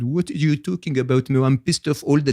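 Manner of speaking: playful mock French accent, laughing it off; funny French accent. Retelling his friend's answer in a mock French accent. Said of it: "in his funny French accent said".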